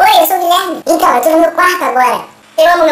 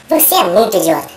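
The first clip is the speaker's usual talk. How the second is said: disguised deep voice; 8 semitones lower than usual. Pretend. Insulting viewer in changed voice.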